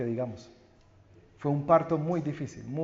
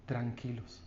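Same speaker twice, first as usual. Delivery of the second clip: hushed comfort; 6 semitones lower, 14 dB quieter than usual. Real, not acted. Comforts congregation after story.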